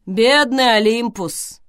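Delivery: loud, slow lament. Acted. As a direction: wail over him. Greyhru laments unexpectedly.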